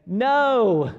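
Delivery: a loud, sarcastically cheerful no; mock joyful. Tired fishermen answer a stranger, sarcastically cheerful and loud. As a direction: sing out a fake-happy no. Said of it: "would very joyfully say".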